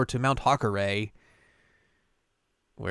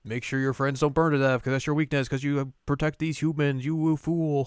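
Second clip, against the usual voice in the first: mock villain taunt; 3 semitones higher than usual. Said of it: "He's like".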